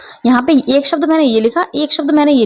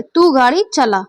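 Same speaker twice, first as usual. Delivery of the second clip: चला given extra force at the end; stress on चला. Shown as a demonstration. Teacher demonstrating balaghat to students, stress on चला. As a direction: put the weight on चला, the final word. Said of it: "जोर दे के बोल रही हूँ आपका".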